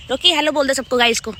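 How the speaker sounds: coaxing the dog. Real, not acted. Coaxing dog to greet viewers.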